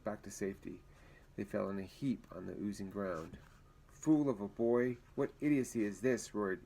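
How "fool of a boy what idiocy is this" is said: a hint of a furious leader; mild roar. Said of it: "roared Brandon".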